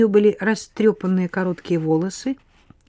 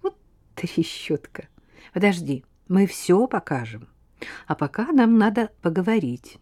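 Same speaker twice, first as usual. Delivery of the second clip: tender; 2 semitones higher than usual. Acted. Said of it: "сказала любовно".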